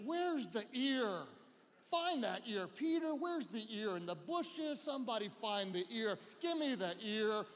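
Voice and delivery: a touch of irritation, nagging for an answer; annoyed. Acted. Jesus scolding Peter over the ear, mildly annoyed. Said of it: "Jesus is annoyed with Peter".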